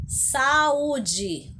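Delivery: Saúde with the Ú split from the A and drawn out; stressed, separated U. Shown as a demonstration. Teacher shows pupils the hiatus, Saúde with a long separate Ú. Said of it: "o U está separado do A".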